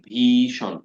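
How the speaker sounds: ভীষণ read with a drawn-out long i; stretched spelling-pronunciation. Shown as a demonstration. Teacher repeats ভীষণ stretched for memory. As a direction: pull out the ী in ভীষণ slowly. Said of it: "মানে একটু টাইনা পড়লেন".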